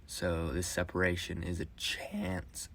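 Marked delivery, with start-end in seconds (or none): 1.8-2.7 voice crack. Real, not acted. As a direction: voice cracking mid-line. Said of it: "ooh, that voice crack".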